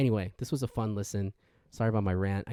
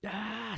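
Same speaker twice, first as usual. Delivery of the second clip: retold scream; 13 semitones higher, 4 dB quieter than usual. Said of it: "she starts screaming".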